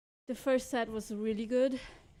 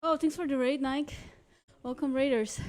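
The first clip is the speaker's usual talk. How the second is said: excited; 3 semitones higher, 5 dB louder than usual. Real, not acted. Thanking a raid on stream.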